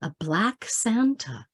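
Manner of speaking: measured, understated poem delivery with pauses between images; poetry reading. Acted. Poet sharing a Christmas poem with online audience, measured recital. Reads own poem aloud.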